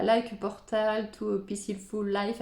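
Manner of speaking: English with a noticeable French accent; English spoken the French way. Real, not acted. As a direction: read the English line through a French accent. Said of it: "avec mon magnifique accent anglais".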